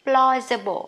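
Plausible said clearly, ending in a light uh-bl; teacher saying Plausible; modeled pronunciation. Shown as a demonstration. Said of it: "Rồi tiếp cái này sẽ là gì đây".

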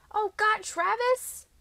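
high, loud wail of dismay; panicked wail. A narrator's reading. Girlfriend panicking about meeting his family, wailing. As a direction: wail it out, voice shooting right up. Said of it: "I wailed, jumping out of bed".

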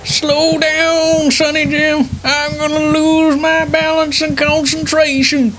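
put-on old veteran grandpa rambling; doddering old grandpa voice. Grandpa character riding bike.

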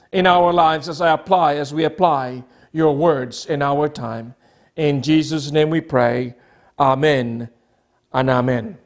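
low, hushed close of a prayer; closing prayer. Real, not acted. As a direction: settle into a low, reverent amen.

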